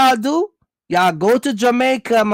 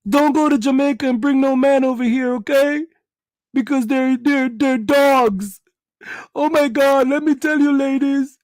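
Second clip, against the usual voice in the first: scorned woman warning; 3 semitones higher than usual. Retold or imitated. Woman warning on social media.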